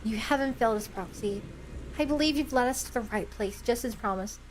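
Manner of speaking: low, sincere reading of a heroic character; calm, solemn role-play voice; earnest hero. Acted. Voicing game character dialogue.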